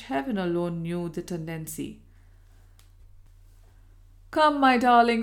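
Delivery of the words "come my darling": coaxing, a little louder; a husband coaxing his wife; kind coaxing. A narrator's reading. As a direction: coax her gently. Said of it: "said the kind, coaxing voice".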